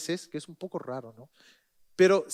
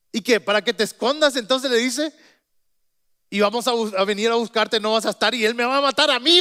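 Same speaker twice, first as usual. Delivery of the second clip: higher, louder panicky objection; fearful protest; 4 semitones higher, 5 dB louder than usual. Acted. The steward protests to the prophet, louder and panicky. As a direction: fret that he'll be killed.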